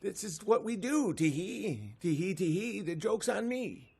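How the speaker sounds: sly leprechaun murmur. Acted. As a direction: smugly whisper the confession. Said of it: "And they're like".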